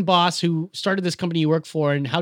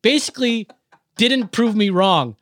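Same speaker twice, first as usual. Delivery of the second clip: heated rant; 4 semitones higher, 4 dB louder than usual. Real, not acted. Angry rant about coworker.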